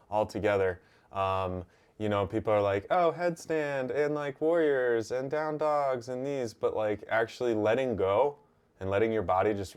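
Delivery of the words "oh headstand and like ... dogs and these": higher-pitched imitation of keen yogis; mock enthusiasm. Yoga teacher imitating people keen on harder poses, mock enthusiasm. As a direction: gush lightly, imitating eager students.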